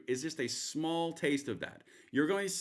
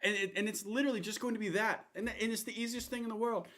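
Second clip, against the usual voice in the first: higher-pitched mock rally voice; Trump impression; 9 semitones higher than usual. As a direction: keep the Trump bit going. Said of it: "this is the way it's gonna go".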